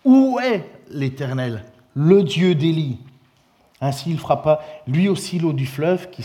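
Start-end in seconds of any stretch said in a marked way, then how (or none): 0.0-3.0 slow, loud call to God; crying out. Acted. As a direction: call out to the heavens, slowly. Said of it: "s'écria".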